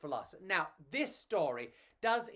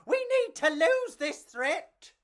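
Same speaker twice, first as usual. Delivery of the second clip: high, louder, urgent little cockroach; urgent bug voice; 13 semitones higher, 9 dB louder than usual. Acted. Bugs fleeing a gecko, high urgent call. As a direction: hurry them along, a gecko behind.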